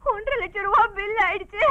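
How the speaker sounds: tearful lament. Acted. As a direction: whimper through tears. Daughter laments the hospital bill. (அழுகையோடு புலம்பல்)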